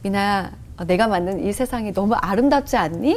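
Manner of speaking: lightly voiced calm, gentle question; Holy Spirit. The Spirit asks about the beautiful world, calm lightly acted voice. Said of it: "딱 성령님께서".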